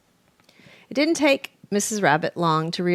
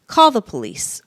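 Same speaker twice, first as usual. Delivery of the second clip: roaring; 6 semitones higher, 8 dB louder than usual. A narrator's reading. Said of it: "Sir Humphrey roared".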